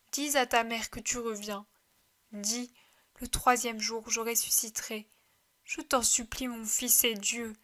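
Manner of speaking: tender plea. Acted. Mother pleading to dead son.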